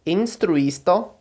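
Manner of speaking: "Instruisto" drawn out slowly, syllable by syllable; slow model reading of "Instruisto"; teacher spelling out "Instruisto" by ear; slow careful Esperanto. Shown as a demonstration. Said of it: "Eu vou só pronunciar cada uma".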